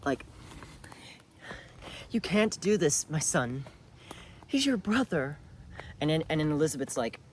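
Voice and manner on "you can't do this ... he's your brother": higher, pleading mother acted out from a show; dramatic pleading mother. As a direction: plead with your son not to do it, a bit theatrical. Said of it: "another dramatic acting if you wanna see it".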